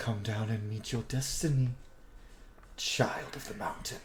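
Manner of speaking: menacing, ominous, disembodied whisper. Game master voicing a voice heard from a pit, calling down a player: ominous voice from the pit. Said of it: "you just hear an ominous voice".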